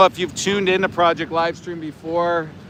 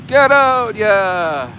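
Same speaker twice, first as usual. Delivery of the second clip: a shouted imitation of the worker, pitched up; mock worker yell; 5 semitones higher, much slower than usual. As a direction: bark it like a worker herding cows. Mocking worker yelling at cows.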